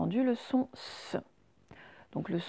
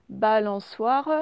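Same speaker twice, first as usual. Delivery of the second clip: slow dictation; slower than usual. Shown as a demonstration. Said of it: "comment est-ce que l'on fait le son S".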